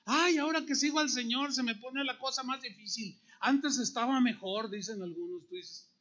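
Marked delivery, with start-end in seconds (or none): 0.0-4.7 mock complaint. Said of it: "insensateces, tonterías".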